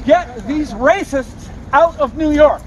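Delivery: high, heated rant; furious, pleading protest; angry rant. Real, not acted. Protester ranting after arrest.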